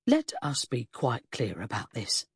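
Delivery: slow, low and stern; stern inspector. A narrator's reading. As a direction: lay down the law slowly. Inspector confronts suspect.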